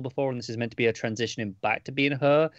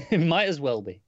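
amused agreement; 4 semitones higher, 4 dB louder than usual. Real, not acted. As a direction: laugh into the words. Laughs at co-host's joke name.

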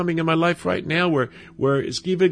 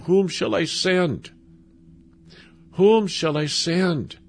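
slow, raised, pleading question; pleading call; 5 semitones higher, slower than usual. Acted. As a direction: let God's plea ring out slowly. God crying out for people.

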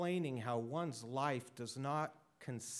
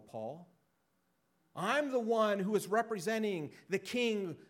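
a hint of a scornful king, building higher and louder; proud and dismissive; 5 semitones higher, 4 dB louder than usual. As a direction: lightly play a haughty king mocking Paul's plea. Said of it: "in a proud and dismissive way".

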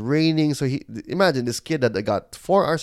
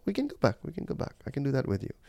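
soft reassurance; 3 semitones higher, 6 dB quieter, faster than usual. Retold or imitated.

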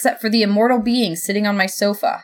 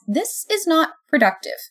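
high, slow admonishment; firm interruption; 9 semitones higher than usual. A narrator's reading. God stops the roommates' quarrel, firmly admonishing. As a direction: cut in slowly, pitched up.

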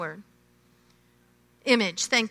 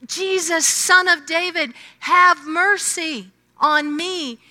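raised, higher earnest cry; louder claim; 4 semitones higher, 3 dB louder than usual. Retold or imitated. Blind man crying to Jesus, raised earnest call. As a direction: call out in faith. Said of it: "He claimed his faith louder".

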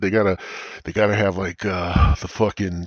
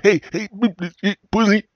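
much higher, louder mock shout; mock repeat; 11 semitones higher, 3 dB louder than usual. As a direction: yell it again, pitched way up. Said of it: "I said".

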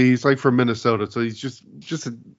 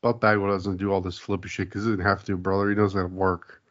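Brett impression. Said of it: "Is that Brett?".

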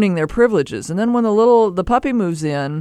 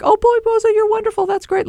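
very high-pitched mock delight; gushing dog owner. Owner praising the little dog on its return, mock gushing. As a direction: coo in an exaggerated high voice at the puppy.

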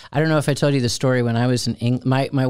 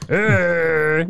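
mock growl into the mic; 6 semitones higher than usual. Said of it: "without making that sound".

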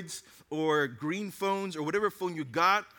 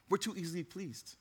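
quiet repeat; 9 dB quieter than usual. Real, not acted. Quiet repeat of key line.

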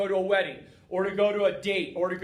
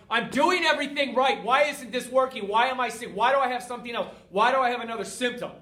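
frustrated; 3 semitones higher than usual. Retold or imitated. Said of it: "I started to get frustrated again".

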